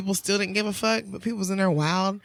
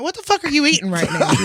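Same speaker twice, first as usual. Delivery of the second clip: higher, incredulous mock yell; retold yell; 5 semitones higher than usual. Bartender catches a customer eating fruit, retold yell. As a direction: demand it in mock disbelief. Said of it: "I yelled at this nigga for".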